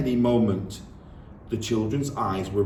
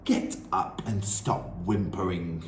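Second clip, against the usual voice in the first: barked; 3 semitones lower, 3 dB quieter than usual. Acted. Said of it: "the Trunchbull barked".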